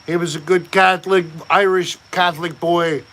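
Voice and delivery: a hint of hammed-up Irish accent; terrible Irish accent. Host praising Shane as an Irish boy, terrible Irish accent. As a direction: lightly put on a bad Irish lilt. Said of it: "Do I sound like I'm, uh, doing a terrible accent".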